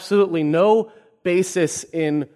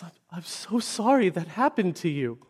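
soft, breathy imitated sympathy; hushed, acted tearful apology; mock near tears; 5 dB quieter than usual. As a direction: say it as if about to cry. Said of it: "almost starts crying".

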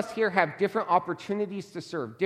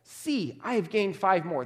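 excited servant; 3 semitones higher than usual. Retold or imitated. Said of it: "There's an excitement there".

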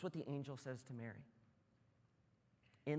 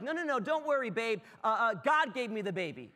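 higher, louder hurried reassurance; reassuring fiancee; 7 semitones higher, 8 dB louder than usual. Retold or imitated. Fiancee calming Joseph, hurried reassurance. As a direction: talk him down fast. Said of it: "And then she's like".

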